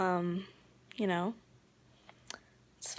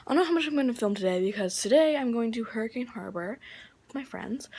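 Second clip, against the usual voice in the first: whispering; 10 dB quieter, faster than usual. Real, not acted. Whispering while others around.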